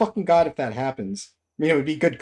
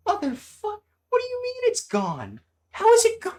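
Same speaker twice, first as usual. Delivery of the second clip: rising panic; 10 semitones higher than usual. Real, not acted. Streamer loses the centipede, rising frantic yell. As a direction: build from shocked to yelling.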